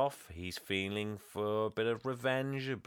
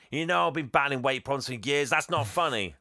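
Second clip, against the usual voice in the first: hurt retort; 3 semitones higher, 4 dB louder than usual. Retold or imitated. Fred hurt and insulting Santa.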